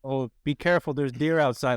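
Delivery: put-on lightly done Fargo accent; a touch of Fargo lilt; imitated Midwestern accent. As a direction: quote her in a Midwestern accent. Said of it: "she had the most amazing accent".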